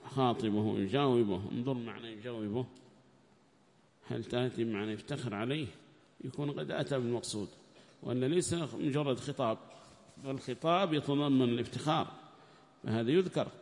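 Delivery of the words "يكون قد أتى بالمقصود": ordinary talk, nothing marked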